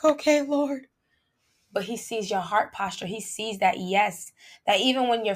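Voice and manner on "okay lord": tearful okay. Retold or imitated. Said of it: "you crying and being like".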